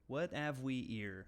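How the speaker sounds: slow, deadpan American accent without the H; dropped H's in an American accent; straight American accent. Shown as a demonstration. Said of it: "but with a straight American accent".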